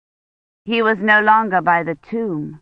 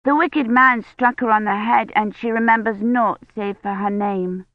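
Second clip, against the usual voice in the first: put-on Agnes, insistent child; 3 semitones higher than usual. Narrator voices little girl Agnes.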